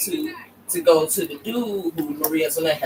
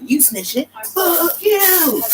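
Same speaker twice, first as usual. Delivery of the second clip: mock furious queen; 13 semitones higher, much slower than usual. The speaker cursing the dude for snitching, high mock fury. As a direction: snap at the snitch like an offended queen.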